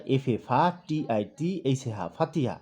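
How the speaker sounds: ফাতিহা spelled letter by letter, each syllable sounded, then the whole name; spelling aloud. Shown as a demonstration. Teacher shows how a student spells at home, spelling ফাতিহা by syllables. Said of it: "প্রথমে স্টুডেন্টরা বানান করবে".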